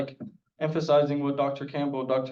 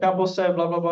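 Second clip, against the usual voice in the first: put-on British accent; 4 semitones higher, 4 dB louder than usual. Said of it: "He's just British accent".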